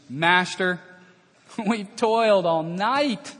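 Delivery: slow, drawn-out weary complaint with a laugh; weary Peter. Acted. Peter telling Jesus how long the night was, slow and weary. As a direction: sound worn out from a long night.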